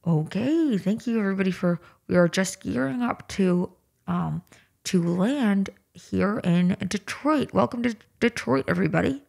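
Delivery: airline cabin announcement; flight attendant announcement. Shown as a demonstration. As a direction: read it like cabin crew. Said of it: "It's almost right".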